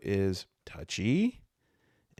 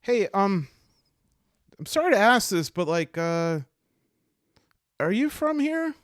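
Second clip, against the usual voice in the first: high, louder, halting approach to a stranger; hesitant, apologetic question; 10 semitones higher, 6 dB louder than usual. Acted. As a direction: ask awkwardly, pitched up. Hesitantly asks elf a question.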